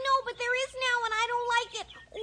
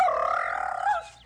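a lower, mocking bark "Arf!"; imitated dog bark; 3 dB louder than usual. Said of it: "barking like".

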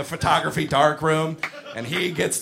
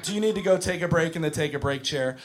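calm teacher voice; 3 semitones lower than usual. Retold or imitated. Teacher calming a screaming kid.

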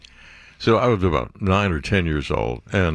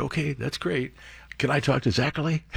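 put-on little kid insisting; 5 semitones higher, 6 dB quieter than usual. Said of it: "I'm a little kid".

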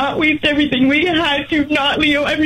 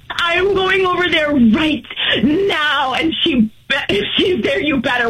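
crying threat. Real, not acted. Wife crying, threatening to come.

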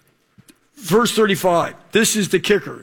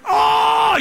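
yelp of pain; 11 semitones higher than usual. Retold or imitated. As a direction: cry out from the sting. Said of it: "I'm like".

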